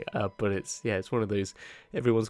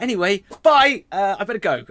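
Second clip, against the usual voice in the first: loud hasty goodbye; 8 semitones higher, 9 dB louder than usual. Acted. Messenger dashing off from the party, loud hurried goodbye. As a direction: call out a bright exit line.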